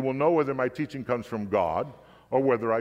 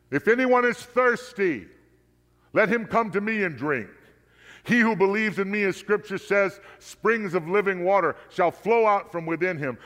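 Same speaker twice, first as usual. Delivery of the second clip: loud voice; 7 semitones higher, 4 dB louder than usual. A narrator's reading. Jesus calls out to the crowd on the feast's last day, loud and high. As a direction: call it out to the whole crowd. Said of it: "said in a loud voice".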